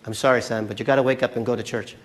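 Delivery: a hint of a no-nonsense mom; mother to son. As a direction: tell the son firmly to get moving. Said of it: "the son who wakes up".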